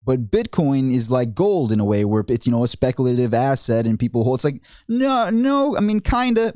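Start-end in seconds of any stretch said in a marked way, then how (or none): 4.9-6.5 emphatic no. Real, not acted. Correcting Powell's gold comparison.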